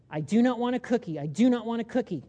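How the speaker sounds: loud, insistent refusal, a touch overdone; mock stubborn denial. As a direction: hammer home the refusal. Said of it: "a distorted response would be to say".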